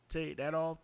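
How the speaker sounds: lightly put-on redneck twang. Host repeating the screen line, light redneck voice. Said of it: "That's my redneck voice".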